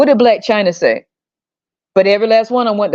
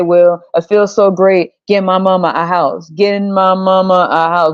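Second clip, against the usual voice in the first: mock rapper interview; 2 semitones lower than usual. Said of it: "they get on T V and they say".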